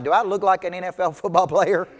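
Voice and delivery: amused, incredulous question through a laugh; laughing disbelief. Retold or imitated. Mocking the strangers' guess, laughing. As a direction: laugh at the absurd idea. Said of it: "I'm like".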